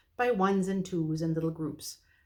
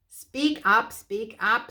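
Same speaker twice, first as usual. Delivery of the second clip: impatient dwarf; 4 semitones higher, 6 dB louder, much slower than usual. Acted.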